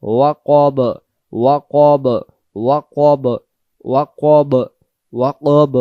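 "ওয়াকব" with a short, closed second vowel; teacher to students, drilling a short "ওয়াকব"; correct pronunciation. Shown as a demonstration. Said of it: "ওয়াকাব যেন না হয়".

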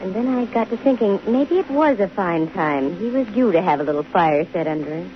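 hardboiled detective narration, even and dry; steady first-person crime narration; story narration. A narrator's reading. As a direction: tell it like a private eye looking back. Detective narrates story between scenes.

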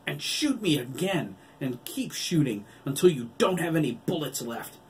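high, loud goading yell. A narrator's reading. Wolf goads the doctor to empty her gun, yelling. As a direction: keep yelling, driving the dare through to the end. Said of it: "Billy yelled".

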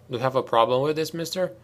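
cold, clipped challenge; icy. Acted. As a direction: freeze him out with the question. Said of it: "The tone in her voice should have frosted over".

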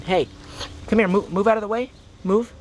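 high, urgent shoo; high-pitched move-it shooing; shooing animals. Real, not acted. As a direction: push them back out of the way. Shooing otters away.

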